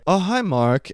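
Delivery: hint of an awkward bad-actor impression; Tommy Wiseau. Reviewer mimicking the actor's delivery, light impression. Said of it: "sounds like Tommy Wiseau".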